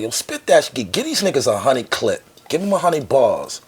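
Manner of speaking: loud, high hype-man call; mock shout at a friend. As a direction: egg him on to spit bars. Friend hypes him to rap.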